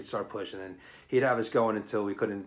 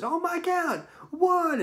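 much higher, strained count; straining groan; 3 dB louder than usual. Retold or imitated. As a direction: gasp it out while failing a push-up. Straining to do a push-up.

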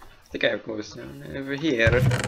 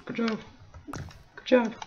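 sarcastic; 9 semitones higher, 7 dB quieter than usual. Acted. Mocking friend's mistake.

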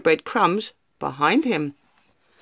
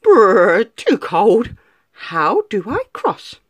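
shivering; 4 dB louder, slower than usual. Acted. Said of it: "he stopped and shivered".

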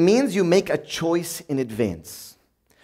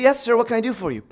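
quick, eager, deferential reply; hammed-up servile politeness; mock polite to the boss; 4 semitones higher, faster than usual. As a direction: sound instantly obliging to the boss. Polite to boss mid-anger.

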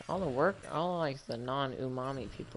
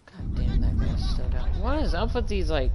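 loud, much higher startled yell; shocked outburst; 8 semitones higher, 9 dB louder than usual. Real, not acted. Player shocked the guy is still down, a loud high yell. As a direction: blurt it out in real shock. Sudden surprise in game.

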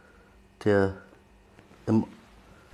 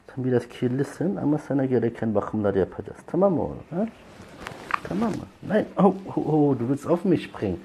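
high, louder startled cooing; 6 semitones higher, 4 dB louder than usual. Real, not acted. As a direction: squeal at the jumping kitten. Kitten jumping at her.

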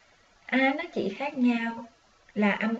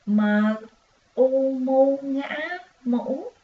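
sing-song spelling; 3 semitones higher, slower than usual. Shown as a demonstration. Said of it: "Vậy chúng ta có".

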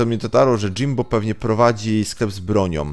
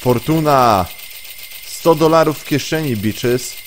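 excited shout; 6 semitones higher, 4 dB louder than usual. Real, not acted. Loot found, exclaims.

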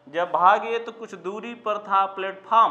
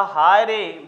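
mock shout; 5 dB louder, slower than usual. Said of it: "बड़े जोर से चिल्लाया".

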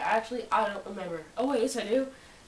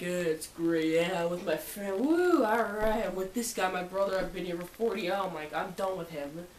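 imagined sarcastic answer. Retold or imitated. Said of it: "I was expecting something like".

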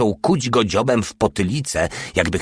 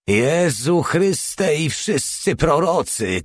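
much higher, slow, strangled exclamation; choked cry; 9 semitones higher, slower than usual. Acted. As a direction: gasp it out in stunned surprise. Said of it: "krzyknął zdławionym głosem". (zdławiony okrzyk, dużo wyżej i wolno)

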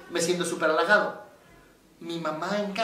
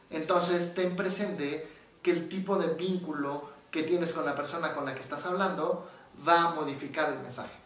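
normal talking voice

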